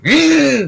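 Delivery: mock angry man grunt. Imitating an angry man lunging, short grunt. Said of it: "you just like".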